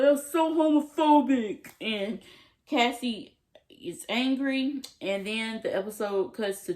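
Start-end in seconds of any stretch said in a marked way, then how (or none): 0.0-1.7 put-on outraged boyfriend. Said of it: "He's like".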